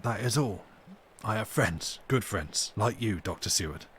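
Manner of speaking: a hint of sly cunning; cunning leer. Renfield hinting slyly to Doctor Seward, understated cunning leer. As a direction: lightly slip in the knowing leer. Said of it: "with a leer of inexpressible cunning".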